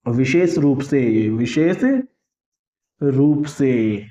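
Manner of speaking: each word of "विशेष रूप से" drawn out very slowly; slow dictation. Shown as a demonstration. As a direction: spell out the meaning deliberately for students to note. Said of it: "specially का meaning क्या होता है?". ("विशेष रूप से" बहुत धीरे-धीरे, रुक-रुक कर बोलें)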